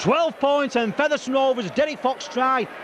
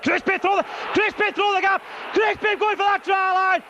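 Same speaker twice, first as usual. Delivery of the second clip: rising excitement, higher pitch; excited; 8 semitones higher than usual. Real, not acted. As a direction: call the break at full thrill. Break toward the try line.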